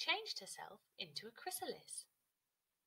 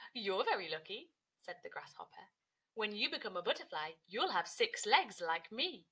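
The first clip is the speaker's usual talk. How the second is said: louder bouncy grasshopper; 5 dB louder than usual. Acted. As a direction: boast it, grasshopper. Grasshopper speaks.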